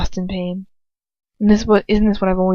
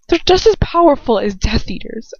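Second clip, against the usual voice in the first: urgent, raised insistence; insistent; 5 semitones higher than usual. Acted. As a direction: insist against his scorn. Heroine pleading in quarrel.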